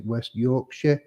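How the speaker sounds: slow, self-mocking West Yorkshire accent; a deliberately bad Yorkshire impression; mock northern accent. Shown as a demonstration. Host admits terrible northern impression of viewer's town. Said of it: "I bet that's a terrible, terrible, uh, impression".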